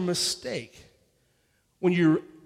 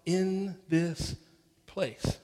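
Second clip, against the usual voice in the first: slow, drawn-out mock lament; imitated crying lament; 2 semitones lower, 4 dB quieter, slower than usual. Peter asks himself how he got here, mildly acted crying. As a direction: stretch the words into a mild, acted wail. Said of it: "and he's crying, and he's going".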